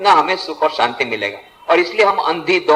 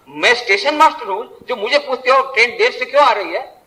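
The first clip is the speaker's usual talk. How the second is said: mock snappish wife, raised pitch; high-pitched, mildly indignant retort; retold angry yell; 6 semitones higher than usual. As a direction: imitate a wife yelling back, without full volume. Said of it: "पत्नी ने जोर से चिल्ला करके कहा, गुर्रा करके".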